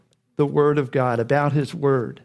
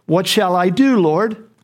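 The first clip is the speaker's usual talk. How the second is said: Saul's urgent raised plea, louder; pleading Saul; 2 semitones higher, 5 dB louder, slower than usual. Retold or imitated. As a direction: cry out to the Lord, asking what to do. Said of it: "And then Saul asked".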